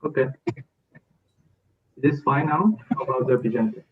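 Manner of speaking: muffled laptop mic. Real, not acted. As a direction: sound dull and muffled. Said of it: "it sounds like it's muffled".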